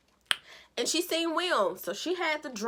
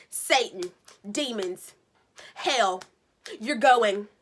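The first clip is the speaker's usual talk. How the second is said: words dropped one by one, growing louder to the last; mock preaching; 4 dB louder, slower than usual. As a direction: build like a preacher's warning.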